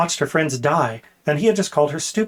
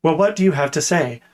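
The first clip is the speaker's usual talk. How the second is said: demanding. Acted. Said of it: "Tuar demanded".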